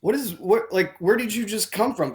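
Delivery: incredulous retelling; retold bafflement. Baffled retort to his wife.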